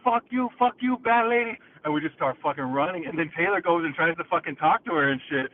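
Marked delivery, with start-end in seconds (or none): 0.0-1.6 much higher, louder taunting shout; loud panicky curse; retold yell. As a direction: yell it while backing away. Cursing witch before running.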